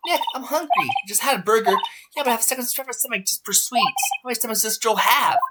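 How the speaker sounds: put-on high, eager young girl voice; girl sidekick voice. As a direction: play the hungry, cheerful partner. Voices Maya, high and bright.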